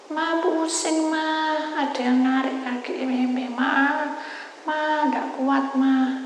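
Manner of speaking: high, drawn-out wail to Mom; retold cry for Mom. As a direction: imitate a child calling out, slow and high. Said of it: "saya teriak".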